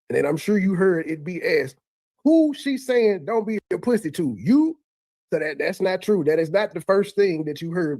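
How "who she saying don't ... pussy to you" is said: pitched way up in mock disbelief; squeaky incredulous retold quote; incredulous mock question. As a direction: ask it like you can't believe your ears.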